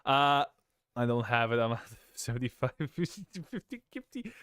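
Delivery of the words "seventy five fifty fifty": words squeezed out through real laughter; helpless giggle rising in pitch; laughing. Real, not acted. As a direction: laugh as you talk, voice climbing and fading. Breaks into laughter at an amount.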